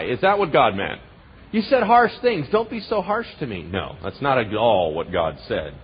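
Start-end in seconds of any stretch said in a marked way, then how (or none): 1.5-3.6 slightly whiny, mock-wounded plea; pouty pleading, put on; mock hurt feelings. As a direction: act lightly offended. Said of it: "Does it mean that God got offended?".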